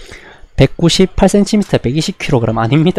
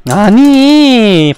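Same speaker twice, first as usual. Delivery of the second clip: a long, high, louder drawn-out protest; stunned protest; 7 semitones higher, 6 dB louder, much slower than usual. Real, not acted. Streamer protesting a combo he just took, stunned and drawn out. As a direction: stretch the word out in disbelief.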